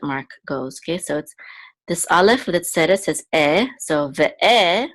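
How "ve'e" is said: Ve'e with a drawn-out, stressed final e; stress on the second syllable. Shown as a demonstration. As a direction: lean on the last vowel of Ve'e. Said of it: "this is the accent of the word".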